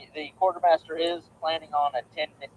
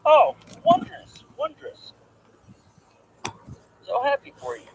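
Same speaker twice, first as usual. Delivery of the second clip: mock high delight; 10 semitones higher than usual. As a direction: gush it in a high sing-song. Mock delight at reenactment news.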